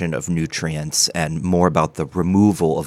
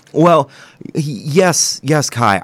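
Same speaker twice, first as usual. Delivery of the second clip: dry mouth; 8 semitones higher, 5 dB louder, slower than usual. Acted. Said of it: "you sound a little".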